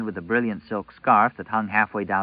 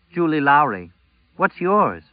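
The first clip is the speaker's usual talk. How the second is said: put-on high girl voice, bright and eager; a young girl introducing herself; 6 semitones higher, 4 dB louder than usual. A narrator's reading.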